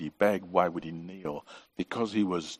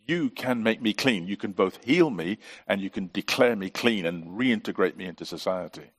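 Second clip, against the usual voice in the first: desperate plea. Retold or imitated. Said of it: "He comes with this desperation".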